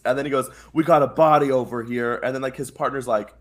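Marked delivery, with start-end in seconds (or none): 0.7-2.2 soldier calling out a find; retold soldier report. Soldier reporting to his partner, mock call-out. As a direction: announce it to your partner.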